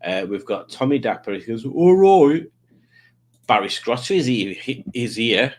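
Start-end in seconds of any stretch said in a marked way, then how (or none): 1.6-2.4 chirpy greeting. Acted. Reading Tommy's chat.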